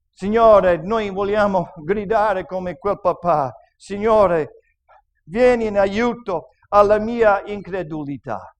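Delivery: earnest pastoral prayer, building in force. Acted. Pastor prays for the suffering in church, fervent. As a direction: pray over the people, rising to a cry.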